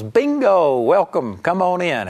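a bright, happy Bingo, then an easy welcome; cheerful welcome. Retold or imitated. Angel welcomes the humble man into heaven, cheerfully. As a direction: welcome him in like he won.

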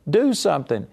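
imitating Moses crying out in desperation; crying out to God. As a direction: beg God for help in a rising cry. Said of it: "started crying out".

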